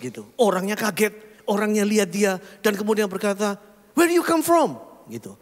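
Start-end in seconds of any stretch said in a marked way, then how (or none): 4.0-4.8 mock foreign stranger. Stranger questions the pastor.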